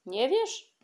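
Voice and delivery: a high, loud, startled question; can't believe the girl doesn't know; disbelief. A narrator's reading. Grandfather and aunt, stunned that Kasia doesn't know, high and loud. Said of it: "Nie mogli uwierzyć".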